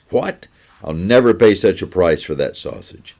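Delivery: sharp rising what, then a protest; indignant outburst. Acted. Soldier balks at the butcher's price, indignant. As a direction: balk at the price, offended.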